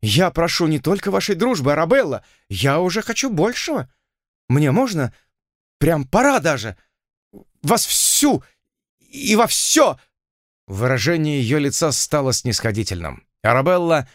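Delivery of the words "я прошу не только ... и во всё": higher, insistent plea; pleading suitor. Acted. The lord presses the heroine for more, voice climbing higher. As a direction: press his suit, rising higher.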